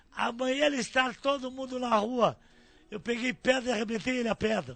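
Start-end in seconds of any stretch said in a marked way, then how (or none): 0.2-2.4 loud, shouted call-out. Retelling how the railway staff chief yelled at class seven, retelling the chief's shout. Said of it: "E ele passou na turma 7 e gritou assim".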